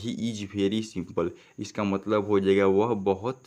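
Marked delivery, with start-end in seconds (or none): 0.0-1.3 each word read slowly and clearly; slow dictation pace; slow reading aloud. Shown as a demonstration. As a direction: read the sentence slowly for the class. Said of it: "क्या लिखा हुआ है".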